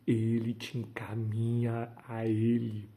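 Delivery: usual speaking voice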